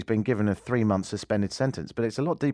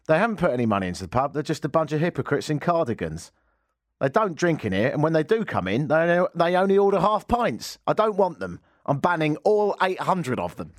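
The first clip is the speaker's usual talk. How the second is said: indignant landlord quote; 4 semitones higher than usual. Retold or imitated. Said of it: "He said".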